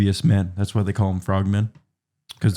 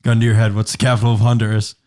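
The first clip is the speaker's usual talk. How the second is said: pressing quiz demand; 5 dB louder, faster than usual. Pretend. Quizzing friend under mock pressure.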